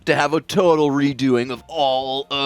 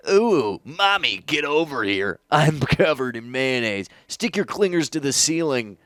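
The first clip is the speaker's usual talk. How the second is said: surfer dude voice. Retold or imitated. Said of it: "doing his best Teenage Ninja Nerdle voice".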